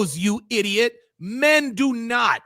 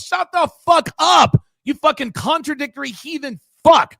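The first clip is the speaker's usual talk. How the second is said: angry rant; 2 semitones higher than usual. Real, not acted. Ranting at the guest.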